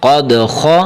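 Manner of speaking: قد خا with thick, rounded kha; measured recitation, bouncing d in قد and heavy خا. Shown as a demonstration. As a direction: fill the mouth on خا, rounded like "kho". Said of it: "آپ نے موٹا کر کے پڑھنا ہے".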